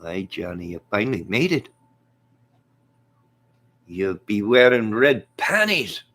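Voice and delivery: lightly voiced Irish fighter impression; McGregor. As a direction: drag out the mocking punchline. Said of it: "brought in McGregor".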